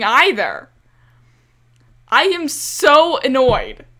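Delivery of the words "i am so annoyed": louder, emphatic complaint; annoyed. Real, not acted. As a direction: let the annoyance out.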